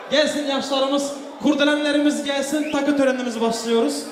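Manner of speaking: booming wedding announcer. Acted. MC calling guests to ceremony.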